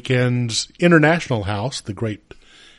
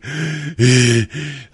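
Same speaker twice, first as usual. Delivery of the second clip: wheezy gasp. Real, not acted. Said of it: "I feel like I'm going".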